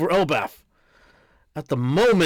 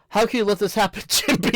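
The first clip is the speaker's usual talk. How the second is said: put-on upset child voice; 6 semitones higher than usual. Angry child character yelling.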